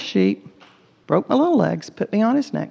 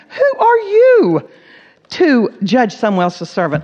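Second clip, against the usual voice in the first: forceful rebuke; 5 dB louder, slower than usual. Acted. Preacher to the congregation, a slow loud challenge. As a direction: thunder the question at the congregation.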